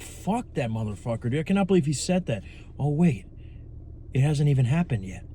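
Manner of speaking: muttered rant. Retold or imitated. Fuming after imagined argument.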